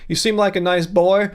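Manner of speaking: lightly put-on Southern accent; mock billionaire with a hint of Southern twang; Bill Gates, Southern accent. Billionaire urging Ryan to go vegan, mock Southern accent. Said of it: "So that's how Bill Gates talks. So he has that kind of accent".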